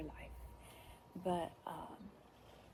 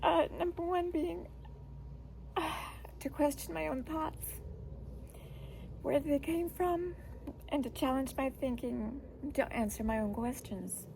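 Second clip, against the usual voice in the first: emotional. Real, not acted. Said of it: "I'm just emotional".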